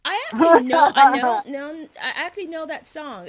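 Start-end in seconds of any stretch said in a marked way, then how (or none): 0.0-1.9 excited. Real, not acted. Excited protest, very loud.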